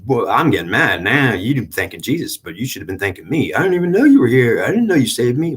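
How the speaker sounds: hint of an offended devil demanding thanks; the devil complaining he is never thanked, mildly voiced; annoyed devil. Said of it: "And you'll say".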